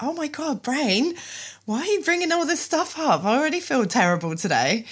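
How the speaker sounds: mock despair at your own thoughts; exasperated. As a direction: plead with your brain to stop. Her exasperated reply to brain.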